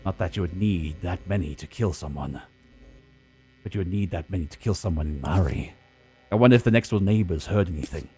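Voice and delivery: noir detective. Acted. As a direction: brood over the clues like a hardboiled detective. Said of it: "I like both voices".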